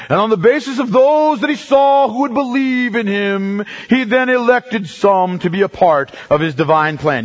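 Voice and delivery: mock a preacher, only lightly; fake preacher voice, lightly done. Shown as a demonstration. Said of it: "That's my fake preacher voice".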